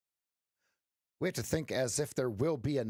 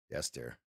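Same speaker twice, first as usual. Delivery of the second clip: "Yes, dear" dropped very low and soft; very low inflection; 13 semitones lower, 6 dB quieter than usual. Shown as a demonstration. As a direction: say "Yes, dear" at the bottom of your range, quietly. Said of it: "different inflections in the tone".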